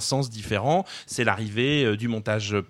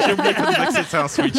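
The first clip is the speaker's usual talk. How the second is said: high, loud and fast through real laughter; laughing; 13 semitones higher, 6 dB louder, faster than usual. Real, not acted. Caught mixing up twist and switch, laughing hard. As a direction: laugh it out, amused at your own slip. Laughs at her own word mix-up.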